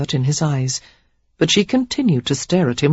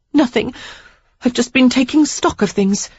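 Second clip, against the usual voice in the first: put-on higher young woman's voice, steady; lightly raised, collected reply; Sarah, composed; 8 semitones higher than usual. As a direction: brush it off calmly.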